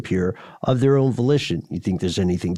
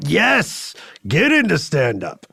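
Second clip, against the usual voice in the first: dog voice; 7 semitones higher, slower than usual. Pretend. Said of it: "they're like".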